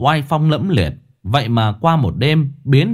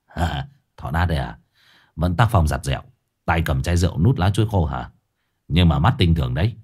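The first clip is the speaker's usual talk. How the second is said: gangster greeting; 6 semitones lower, faster than usual. A narrator's reading. Scarred gangster greeting the old drunk in low voice. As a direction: greet him like a menacing boss.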